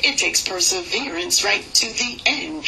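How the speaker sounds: rhythmic, steady poem recital; spoken word poem. Acted. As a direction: ride the rhythm of the verse.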